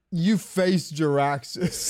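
slow, lightly voiced demon boast; mock Jaraxxus. Gamer mimicking a boss's pompous line, slow mock boast. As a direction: drawl it out like a self-important demon. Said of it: "He's like".

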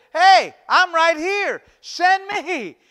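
high, loud, drawn-out call from Isaiah; eager volunteering. Retold or imitated. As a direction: call out boldly as if answering God.

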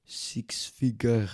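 lightly put-on French accent, haughty; a smug French dealmaker, mock accent. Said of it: "Fuck this French accent".

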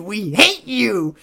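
slow, heavy "We hate you" with HATE dragged out; drawn-out mock hatred. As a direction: drag out "We hate you" like a sulky fan. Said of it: "They were like".

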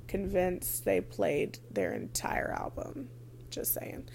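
soft, slow conspiratorial whisper; whispered aside. Real, not acted. Telling viewers about the boring opening act, petty whisper. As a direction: lean in and whisper the shade.

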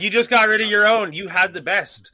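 high, loud mock scolding of himself; scolding inner voice. Scolding himself for buying back old tapes, mock-scolding and high. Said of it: "But I'm like".

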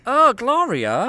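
very high, loud, drawn-out theatrical cry; mock exclamation. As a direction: wail it out slowly, hammed-up. Playful outburst interrupting the story.

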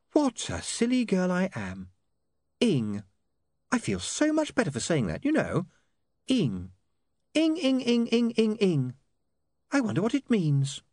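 put-on very high, girlish character voice; giddy woman. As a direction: chirp the nonsense swearword with relish.

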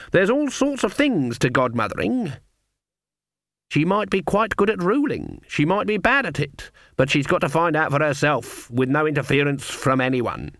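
lightly voiced stern granny; Granny, firm and reasoning.

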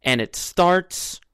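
upbeat sports show host; bright, lively announcer intro. Acted.

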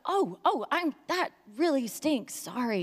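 imitated parent caught out; mock awkward sympathy. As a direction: fumble into a lame apology. Acts her awkward apology to daughter.

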